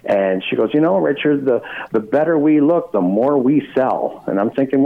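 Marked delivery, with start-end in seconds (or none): 0.7-4.2 mock guest voice. Host imitating the star telling him looks sell, lightly higher. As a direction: play the diva explaining her makeup, higher.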